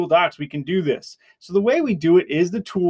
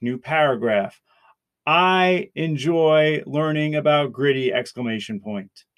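dictating; 2 semitones lower than usual. Shown as a demonstration. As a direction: speak clearly for voice typing. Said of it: "we'll click to speak".

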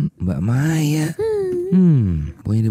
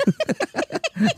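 high fake laugh; 4 dB quieter than usual. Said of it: "Acting banget sih".

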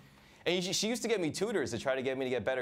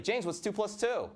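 tutor voice; 9 semitones higher, slower than usual. Retold or imitated. Tutor quizzing him.

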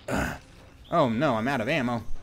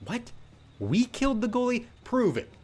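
much higher, scoffing Prove it; mock incredulous denial; 10 semitones higher than usual. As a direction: feign outrage at the accusation.

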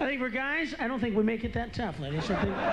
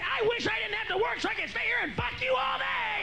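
high, hammed-up sweet husband voice; mock loving husband; 13 semitones higher, 3 dB quieter than usual. Husband lying sweetly to his wife each morning, high and hammed-up. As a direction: gush it like a faking husband. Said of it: "every morning and go".

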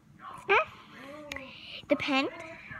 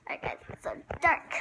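whispered "so dark"; 7 dB quieter, faster than usual. Real, not acted. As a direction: breathe it in the dark.

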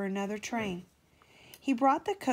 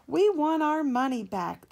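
higher, louder crowd demand; louder, higher angry crowd; angry shout; 7 semitones higher, 7 dB louder than usual. Acted. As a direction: yell it at the office. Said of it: "they shouted".

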